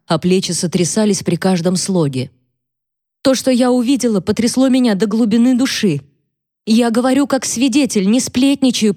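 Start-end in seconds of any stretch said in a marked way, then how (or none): 3.2-8.9 put-on high-pitched, mildly distraught girl; tearful gabble. A narrator's reading. Abigail testifying to Wilder in tears, gabbling. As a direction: insist anxiously, close to tears. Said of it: "протараторила она".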